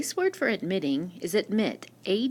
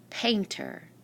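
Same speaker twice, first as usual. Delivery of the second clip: painter, with the first syllable accented and a long A; stress on first syllable. Shown as a demonstration. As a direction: say "painter" carefully, leaning on PAIN. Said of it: "The first syllable is the accented syllable".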